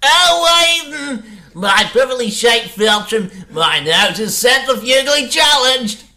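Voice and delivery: high, shouting panic; panicked. Acted. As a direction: wail about your broken nose. Nerd hit on nose.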